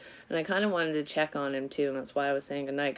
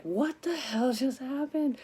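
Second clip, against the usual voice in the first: slow, high-pitched stunned question; reliving stunned disbelief, voice pitched up; retold disbelief; 8 semitones higher, slower than usual. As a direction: stretch it out in bewildered shock. Retells running out in shock.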